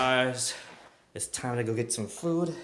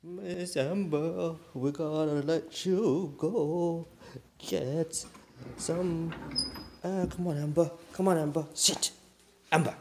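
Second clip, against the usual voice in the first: calling the dog; 7 semitones higher, 4 dB louder than usual. Real, not acted.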